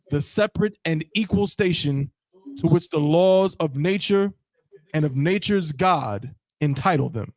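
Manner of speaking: measured, proud declaration with pauses between phrases; stately, deliberate read-aloud with a touch of pride. Shown as a demonstration. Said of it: "Like, proud, sir?".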